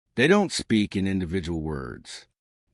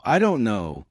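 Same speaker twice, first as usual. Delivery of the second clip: measured, separate words; careful "don't know", unblended; a touch deliberate; slow learner version. Shown as a demonstration. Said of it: "or slow".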